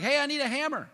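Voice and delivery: mock call from far below; high hammed-up holler. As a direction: shout up to a worker on the tower. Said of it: "holler and be like".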